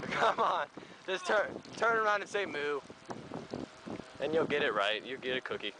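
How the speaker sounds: put-on sing-song baby talk to a grown friend; talking to a toddler. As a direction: coax him like a small child.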